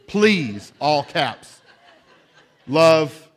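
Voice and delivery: hammed-up childish yell; mock loud plea. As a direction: yell it like capital letters. All-caps plea from journal.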